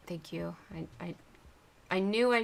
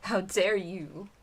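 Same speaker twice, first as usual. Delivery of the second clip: loud, slow, hammed-up indignation; mock outrage; 5 dB louder, slower than usual. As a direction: overplay being offended. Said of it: "Taunting me".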